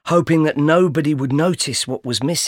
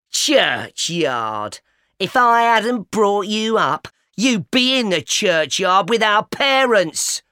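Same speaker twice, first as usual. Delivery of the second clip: angry cry; 5 semitones higher, slower than usual. A narrator's reading. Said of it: "she cried".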